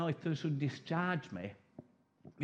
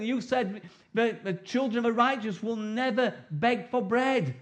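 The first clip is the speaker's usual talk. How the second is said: prayer demo; 3 semitones higher, 4 dB louder than usual. Shown as a demonstration. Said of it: "We need to go before him and say".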